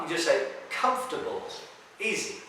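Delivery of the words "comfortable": "comfortable" squeezed to KUMF-tuh-bul; correct pronunciation. Shown as a demonstration. Teacher showing how you just say it, correctly pronounced. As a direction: say "comfortable" dropping the O and the R. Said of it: "you don't have to pronounce the O and the R".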